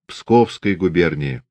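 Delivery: slow, firm ringing bass; clear low voice. Acted. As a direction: answer in a clear steady bass. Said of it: "ответил уже чистым звучным баском".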